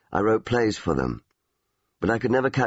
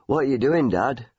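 put-on higher, brighter child asking; curious child; 5 semitones higher than usual. Boy asking his dad what he's writing, higher. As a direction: pipe up like a small boy.

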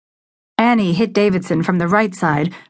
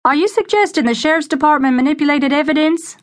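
calling out; 10 semitones higher, faster than usual. A narrator's reading. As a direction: call out the question across the crowd. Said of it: "a reporter called out".

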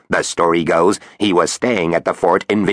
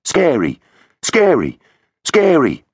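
each scary rising higher and louder, echoing; 10 semitones higher, 3 dB louder, slower than usual. Acted. Finn's voice echoing round the metal cubicle, building. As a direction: let it echo off metal walls, building. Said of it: "His voice echoed round".

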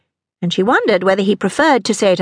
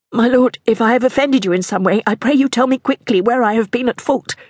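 higher-pitched, earnest appeal; anxious pleading; 6 semitones higher than usual. Acted. Mistress begs her lord to name her fault, anxious. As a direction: plead to know what went wrong.

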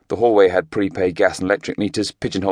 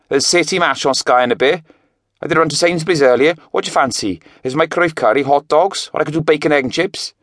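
higher, louder call across the house; shouting from kitchen; 8 semitones higher, 3 dB louder than usual. A narrator's reading. Jake calling to Craig from the kitchen, shouting. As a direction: call out from the next room. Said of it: "Jake shouted from the kitchen".

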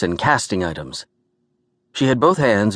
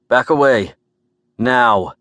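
firm warning; 2 semitones higher, 4 dB louder, slower than usual. Acted. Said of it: "I warned Morty".

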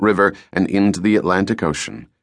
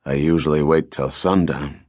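glum; 5 semitones lower than usual. Acted. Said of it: "the cook said glumly".

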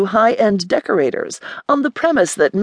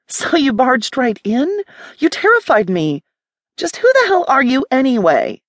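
startled indignant woman; 7 semitones higher than usual. Acted. Startled woman confronts intruder.

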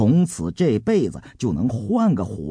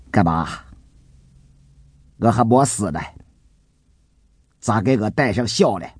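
mild scorn in a character's voice; disdainful. Acted. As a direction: brush him off with a touch of disdain. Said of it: "一边不屑地说". (略带不屑地说)

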